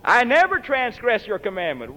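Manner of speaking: a touch of self-righteous pleading; the dutiful son listing his merits, mildly smug. Retold or imitated. Elder brother to father, mildly self-righteous. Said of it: "what a self-righteous statement".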